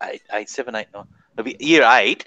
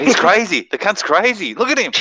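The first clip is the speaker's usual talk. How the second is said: excited; 9 semitones higher, 3 dB louder than usual. Retold or imitated. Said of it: "We're going".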